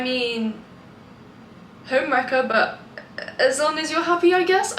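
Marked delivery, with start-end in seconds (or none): 3.4-4.8 grudging. Real, not acted. Grudging acceptance.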